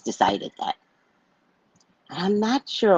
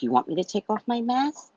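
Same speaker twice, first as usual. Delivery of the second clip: high, challenging retort; cussing him out; 7 semitones higher, 3 dB quieter than usual. Retold or imitated. To the yelling drunk man, a high mocking challenge. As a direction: throw the question back at him. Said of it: "I'm cussing him out".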